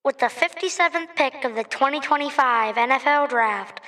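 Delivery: draft announcer through a megaphone. Shown as a demonstration. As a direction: call the pick over a megaphone. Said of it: "announce in the megaphone the number".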